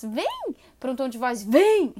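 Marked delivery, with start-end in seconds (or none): 0.0-0.6 "vem" sung high and light, inviting; friendly call. Shown as a demonstration. Trainer contrasts tones of voice for the dog, high friendly "vem". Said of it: "a diferença de um tom de voz". 1.4-1.9 "vem" barked loud and hard; harsh command. Shown as a demonstration. Trainer contrasts tones of voice for the dog, loud harsh "vem". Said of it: "a diferença de um tom de voz".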